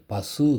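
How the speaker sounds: பசு ending on a full, rising oo; full final u. Shown as a demonstration. Teacher showing students how பசு is said, full final u. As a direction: sound the சு of பசு as a complete u. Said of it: "அப்படின்னு உச்சரிப்பீங்க".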